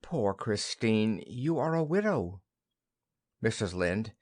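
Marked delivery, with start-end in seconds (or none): 0.0-2.4 gently. Acted. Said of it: "Nora, gently".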